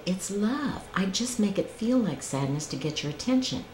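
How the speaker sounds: understated, gentle retelling of God's words; calm, loving answer. Retold or imitated. Speaker recalls God's answer in that moment, calm and loving. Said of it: "a beautiful, calm, loving answer".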